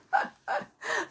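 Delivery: high, light burst of laughter; real giggle. Real, not acted. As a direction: laugh at your own slip. Amused at her own slip.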